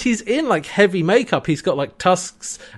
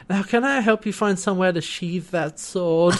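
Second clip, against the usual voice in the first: Southern Belle; 3 semitones higher than usual. Retold or imitated. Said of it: "does that accent the entire time".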